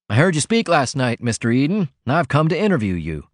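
a hint of a brisk, businesslike cub; cub reporter. Voices the eager cub reporter.

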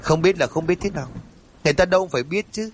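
mild irritated snap. Acted. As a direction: nag him lightly, rushing the words. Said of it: "Bà hơi khẽ gắt". (vợ hơi gắt nhẹ, giọng cao và nhanh)

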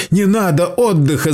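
high frantic protest; terrified outcry; panicked yell. Acted. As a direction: beg them not to let you rest. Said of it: "завопил Сейл".

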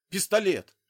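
loud, high shout of alarm; alarmed cry. A narrator's reading. Soldier spots the gun, alarmed shout. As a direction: yell the warning. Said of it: "воскликнул Гранбек".

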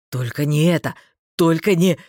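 mild low-pitched yell; restrained alarmed shout. A narrator's reading. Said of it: "завопил Дарвальд".

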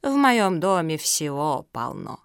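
slow, untroubled boast; calm retort. Acted. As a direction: boast calmly and unhurriedly. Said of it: "спокойно возразила Зоя".

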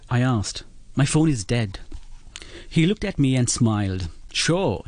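reading a short story aloud on air; measured story narration, quotes lightly voiced. Author reads his excerpt to the radio host, story narration.

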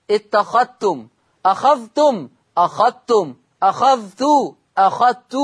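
اتخذتم said etaxadtum, the ذ merged into the ت. Shown as a demonstration. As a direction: say أخذتم with no ذ sound, straight into ت. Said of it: "لا يتلفظ بالذال". (إدغام الذال في التاء في اتخذتم)

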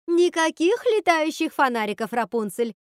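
high, loud outburst, easing on the name; furious yell. A narrator's reading. Witch forbidding Rapunzel the lanterns, furious yell. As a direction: yell a flat refusal in anger. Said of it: "завопила Готель".

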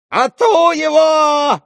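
shrill, slow, high howl at the fleeing son; old father howls for help, drawn out. A narrator's reading. Old father howling as his son bursts through, shrill and high. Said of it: "завопил старик".

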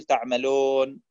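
تعملون with lips barely rounded on the waw; foreign-sounding waw. Shown as a demonstration. Teacher showing the unrounded waw in تعملون. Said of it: "تصبح الواو قريبة من النطق الأعجمي".

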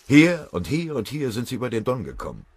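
laut und höher, hastig erregt; aufgeregt. Acted. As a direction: jede Stelle aufgeregt hervorheben. Fröbe zeigt aufgeregt auf Karte. (Fröbe erklärt den Kameraden aufgeregt die Karte, laut)

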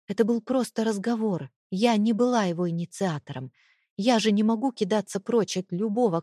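ordinary delivery

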